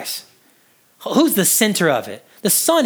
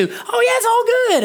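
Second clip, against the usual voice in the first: much higher, falsely bright reassurance; mock cheerful. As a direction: sing it out like someone fooling himself. Deceived man voiced.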